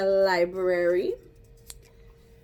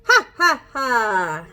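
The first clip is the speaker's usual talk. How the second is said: hyena laugh; 8 dB louder, slower than usual. Shown as a demonstration. Teacher leads the kids in a loud hyena laugh. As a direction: belt out a cartoon hyena laugh. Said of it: "You ready?".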